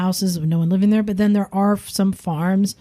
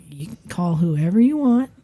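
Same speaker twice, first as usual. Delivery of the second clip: even, soothing reply; calm reassurance; 2 semitones higher than usual. Retold or imitated. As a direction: settle him down gently. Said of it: "Just staying calm".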